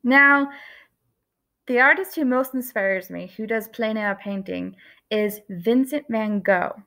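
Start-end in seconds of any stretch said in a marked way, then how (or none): 5.1-6.8 "Vincent van Gogh" said the usual English way, Gogh as "go"; Americanized "van Gogh", ending in a plain "go"; common English pronunciation. Shown as a demonstration. Teacher to kids, the usual English way first. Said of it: "that's not how you're supposed to pronounce his name".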